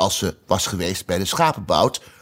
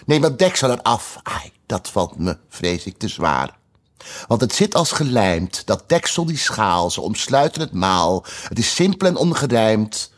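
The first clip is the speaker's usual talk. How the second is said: rhythmic recited verse; reciting a rhyme. Acted. White queen reciting her fish riddle to the table. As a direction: recite the riddle poem with a lilt.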